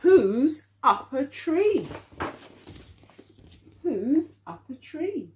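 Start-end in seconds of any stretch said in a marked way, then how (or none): 0.1-1.9 slow, louder question for the class; slow read-aloud. Acted. Teacher reading the question to children, slow and louder. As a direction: read it out slowly, a bit louder.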